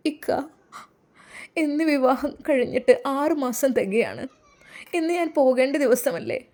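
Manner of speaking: fighting back tears; tearful wife. Acted. Wife tells husband her six months are up, tearful. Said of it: "അവൾ കരയുകയാണ്".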